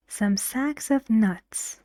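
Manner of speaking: "sacks" and "nuts" stressed, "of" reduced. Shown as a demonstration. Teacher modelling a phrase with "of", stressing "sacks" and "nuts". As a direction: lean on "sacks" and "nuts", pass over "of". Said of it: "This word is stressed because".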